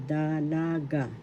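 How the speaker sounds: Dalaga. said slowly with a long "la"; teacher slowly modelling Dalaga., stressed on LA; stress on second syllable. Shown as a demonstration. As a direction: stretch the middle of Dalaga.: da-LAA-ga. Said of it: "The accent is in".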